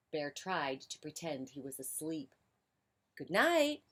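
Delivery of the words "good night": raised, high-pitched goodnight; a little louder. A narrator's reading. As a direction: repeat the goodnight to get noticed. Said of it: "said Mouse a little louder".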